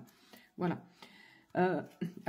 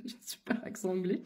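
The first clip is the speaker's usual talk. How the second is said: whispered aside; 3 dB quieter, faster than usual. Real, not acted. Laughing aside about her accent.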